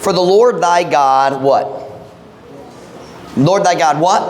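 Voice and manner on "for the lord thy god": deliberate scripture reading; read slowly. Shown as a demonstration. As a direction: lean on each word of the verse. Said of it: "Let's read this slowly".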